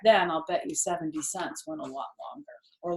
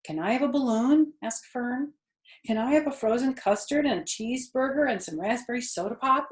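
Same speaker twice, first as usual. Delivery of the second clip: put-on eager child pleading; 5 semitones higher, 3 dB louder than usual. Children begging.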